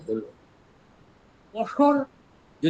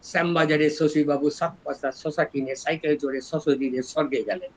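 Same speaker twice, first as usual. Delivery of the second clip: 1 Kolkata s joke; 2 semitones lower, 4 dB quieter than usual. Retold or imitated. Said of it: "এরা বলে".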